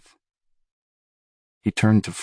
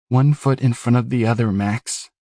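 Newton's voice; 3 semitones higher than usual. Acted. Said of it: "It was Newton's".

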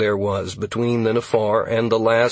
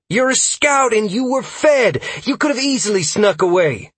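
loud, high-pitched accusation; heated, raised voice; near shout; 13 semitones higher, 6 dB louder than usual. A narrator's reading. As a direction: berate the scout, almost shouting. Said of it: "Freya practically shouted".

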